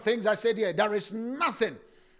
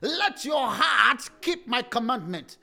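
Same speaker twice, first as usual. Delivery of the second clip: slow preaching emphasis; slower than usual. Acted. Preacher drives scripture line home.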